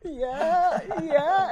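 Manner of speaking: giddy squeaky high laughing yeah; excited. Retold or imitated. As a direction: starstruck fangirl squeal. Starstruck fan reacting to legend.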